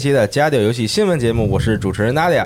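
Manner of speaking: loud, bright radio announcer delivery; formal news anchor tone; broadcaster voice. Acted. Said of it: "我也想学他播音腔".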